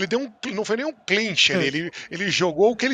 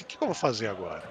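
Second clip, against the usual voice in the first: low muttered aside; 12 semitones lower, 10 dB quieter, faster than usual. Retold or imitated. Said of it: "eu falei assim".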